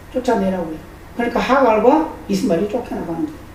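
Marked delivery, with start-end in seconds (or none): 0.1-0.8 쫓아내라고 repeated softly with a falling end; quiet echo. Shown as a demonstration. Preacher repeating God's command softly to the congregation. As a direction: drop the voice and let 쫓아내라고 fall away. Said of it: "그런데 하나님은 쫓아내라고 그래요".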